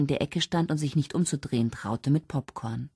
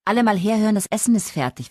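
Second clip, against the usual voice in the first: loud, high call to the whole house; announcing; 7 semitones higher, 4 dB louder, faster than usual. A narrator's reading. Mother summoning the family to dinner, calling out loudly. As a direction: call everyone in to eat. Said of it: "verkündete Elizabeth".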